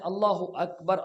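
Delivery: اللہ اکبر said slowly with a clear doubled l in اللہ; slow, exact Arabic اللہ اکبر; correct Arabic. Shown as a demonstration. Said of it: "عربی تلفظ میں آپ نے ادا کرنا ہے".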